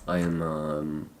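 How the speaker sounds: halting, stumbling over words; stuttering. Real, not acted. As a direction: trip over the start. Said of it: "yeah, I'm stuttering now".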